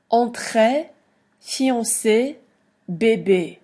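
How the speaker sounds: entrée fiancé bébé with a long A sound on é; teacher models the é sound; French accent aigu. Shown as a demonstration. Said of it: "makes the E sound like a long A".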